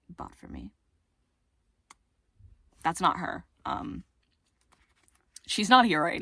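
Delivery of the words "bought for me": whispered. Real, not acted.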